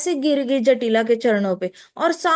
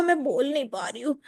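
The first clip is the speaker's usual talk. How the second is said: much softer, a faint failing voice; faint and weak; 6 dB quieter than usual. Pretend. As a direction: pretend the poison chokes her. Radha faking poison weakness. (ज़हर का नाटक करती राधा, बहुत धीमी कमज़ोर आवाज़)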